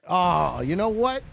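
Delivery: usual speaking voice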